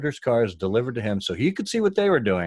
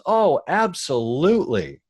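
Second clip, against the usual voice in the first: higher, louder, slow eager agreement; eager yes; 6 semitones higher, 4 dB louder, slower than usual. Retold or imitated. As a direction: jump at it gladly. Quoting Alan eager.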